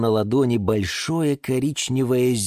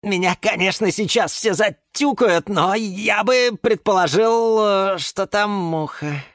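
high-voiced hesitant mumble; mumbling; 12 semitones higher than usual. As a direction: mumble a timid guess from the corner. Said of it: "тихо пробубнил из своего угла". (бубня себе под нос)

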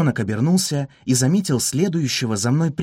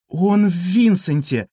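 alarmed call; 6 semitones higher, 3 dB louder, slower than usual. A narrator's reading. Cleopatra alerting cats.

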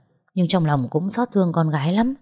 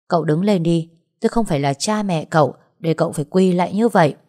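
scolding. Acted. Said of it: "Bà Hiền quát Thuyết".

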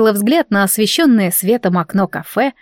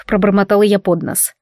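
usual speaking voice

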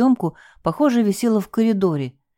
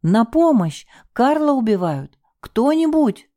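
screaming for help; 6 semitones higher than usual. Acted. Wife screaming for help as husband is attacked. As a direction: scream for anyone to come. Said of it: "закричала".

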